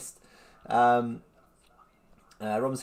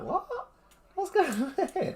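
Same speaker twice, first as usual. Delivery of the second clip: high-pitched bewildered question; amused disbelief, pitched right up; baffled. Retold or imitated. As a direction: act out total confusion, half laughing. Acted baffled reaction to odd request.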